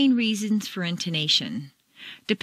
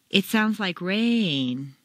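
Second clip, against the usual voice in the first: very slow, rain on two notes; slow, "rain" drawn out over two notes; slow stress on rain; much slower than usual. Shown as a demonstration. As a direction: stretch the sentence, make rain sing. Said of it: "Make rain very musical".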